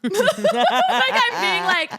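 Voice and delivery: ordinary talk, nothing marked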